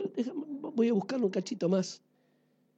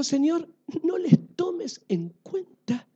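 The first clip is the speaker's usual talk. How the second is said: gentle forgiveness; 6 semitones higher, slower than usual. Acted. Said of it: "Y él dijo".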